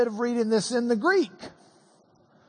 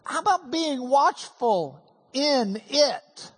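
mock puzzled; 3 semitones higher than usual. Shown as a demonstration. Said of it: "Seems a bit unusual".

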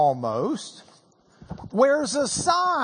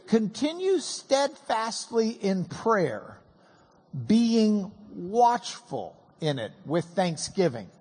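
scripture reading. Shown as a demonstration. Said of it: "let's just segregate out verse two".

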